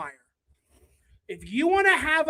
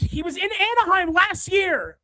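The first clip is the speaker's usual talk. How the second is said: raised, higher exasperated yell; 5 semitones higher than usual. Real, not acted. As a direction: fan yelling at chat. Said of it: "I'm not trying to yell at you guys".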